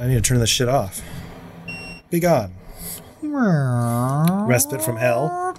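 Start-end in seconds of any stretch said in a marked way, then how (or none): 2.1-5.5 hammed-up slow solemn command; dramatic banishing. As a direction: banish it grandly.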